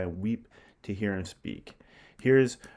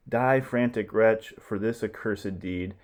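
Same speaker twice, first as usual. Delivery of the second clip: furious stage cry. Acted. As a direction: strike him down in rage. Saturninus kills Titus.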